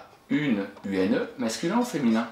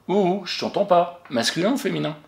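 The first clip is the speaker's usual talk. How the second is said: playful, higher call for an answer; coaxing teacher; 8 semitones higher, 3 dB louder than usual. Shown as a demonstration. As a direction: egg the child on to speak up. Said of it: "invite l'élève à répondre". (maîtresse qui taquine, voix haute et enjouée)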